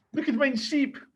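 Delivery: mock German-accented voice. Telling a joke as an impression of a German Shepherd: put-on German accent. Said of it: "my impression of a German Shepherd".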